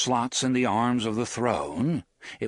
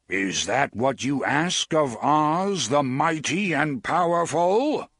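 slow and louder; grand wizard; 4 semitones higher, 4 dB louder than usual. Acted. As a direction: intone it like a pompous wizard. Oz asks grandly.

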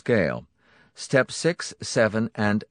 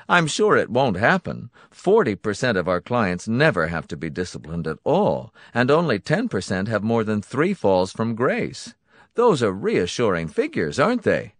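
raised, falsely soothing voice; sympathetic Donati voice; 3 semitones higher, 4 dB louder than usual. Acted. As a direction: reassure with a hidden threat.

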